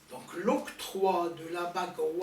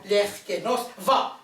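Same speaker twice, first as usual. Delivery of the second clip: loud, rising "L'air kénos, va" as a push; encouraging call; 3 semitones higher, 9 dB louder than usual. Shown as a demonstration. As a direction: urge them on, loud. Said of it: "quand on veut encourager". (encouragement forte)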